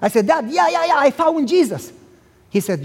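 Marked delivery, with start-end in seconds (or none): 0.3-1.9 hasty agreement. Retold or imitated. Son brushing father off.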